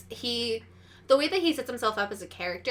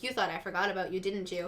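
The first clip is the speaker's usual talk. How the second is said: softer, slightly lowered knowing address; understated menacing aside; 2 semitones lower, 4 dB quieter than usual. Acted. Frank catches the camera in the mirror, understated menace. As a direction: drop the volume, confide it to the camera.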